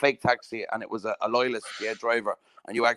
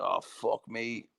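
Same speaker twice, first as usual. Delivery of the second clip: a low, drawn-out "oh, fuck me"; quiet dread, slowly; 3 semitones lower, 6 dB quieter, much slower than usual. Retold or imitated. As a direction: let the fear sink in slowly and quietly. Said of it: "I was like".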